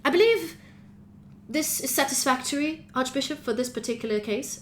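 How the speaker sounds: lightly voiced stiff professor; droning professor. Academy director reporting to the Archbishop, mildly droning. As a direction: report to the judge, dry. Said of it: "his droning voice of a professor".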